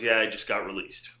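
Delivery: low, deflated retelling; mildly dejected. Retold or imitated. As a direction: imitate someone mildly crushed by bad news. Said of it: "he sounded horrible".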